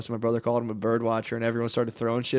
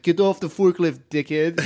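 higher-pitched imitation Mexican accent; light mock Mexican accent, raised pitch; 4 semitones higher, slower than usual. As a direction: mimic an irritated worker with a Mexican accent. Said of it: "Some, like, Mexican dude was like".

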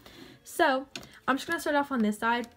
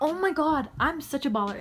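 gleeful; 4 semitones higher than usual. Real, not acted. Still celebrating the shot.

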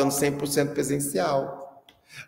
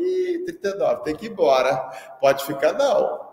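mock exclaiming; 3 semitones higher than usual. Mock verdict to child.

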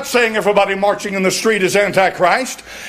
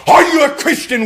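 higher, louder hostile yell; with venom; 6 semitones higher, 4 dB louder than usual. Retold or imitated. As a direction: spit it at her like the angry mob. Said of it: "with venom".

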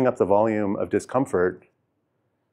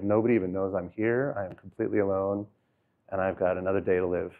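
softer, hushed lonely voice; hushed despair; 3 semitones lower, 6 dB quieter than usual. Retold or imitated. Voicing his imagined deathbed thoughts, softly and hushed. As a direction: let it sink to a lonely hush.

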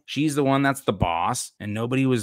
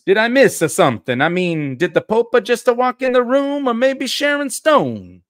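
high, loud mock-Italian accent climbing higher; Guido, stereotyped Italian accent; 12 semitones higher, 6 dB louder than usual. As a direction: ham up an incredulous Italian stereotype. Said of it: "I'm just gonna do stereotypes".

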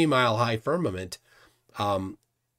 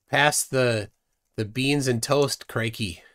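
lightly attempted British accent; slower than usual. Shown as a demonstration. Cohost gamely tries British for the chat, mock British accent. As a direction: toss out a mock British line. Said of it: "British accent".

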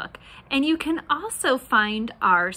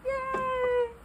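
cheering; 13 semitones higher, 4 dB quieter than usual. Real, not acted. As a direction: cheer them on. Praising kids after the song.

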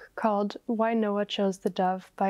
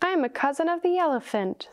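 high little mouse voice; squeaky mouse; 8 semitones higher than usual. A narrator's reading. Mouse boasting to the other animals, high squeak. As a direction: lift the pitch into a small squeak. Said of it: "squeaked the mouse".

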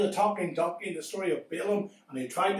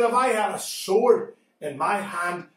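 low threat; 5 semitones lower than usual. Acted. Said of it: "He said".

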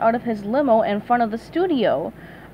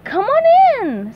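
SpongeBob voice; 12 semitones higher, 7 dB louder, slower than usual. Acted. SpongeBob invites Patrick.

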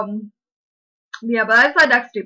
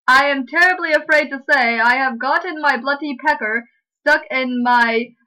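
hammed-up Brit in trouble; mock British dismay; 3 semitones higher, 4 dB louder than usual. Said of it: "How's that British?".

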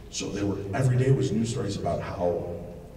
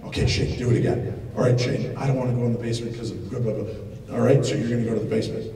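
mock producer prompt; faster than usual. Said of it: "This is why there's no acting".

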